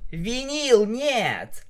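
high-pitched urgent protest; alarmed cry. A narrator's reading. Narrator mare pulls Vinyl off captive, alarmed cry. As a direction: cry out to stop a friend.

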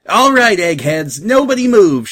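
loud, high hold-up shout; high-pitched pirate yell taking charge. A narrator's reading. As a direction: shout a command to freeze at a whole crew. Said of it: "she shouted".

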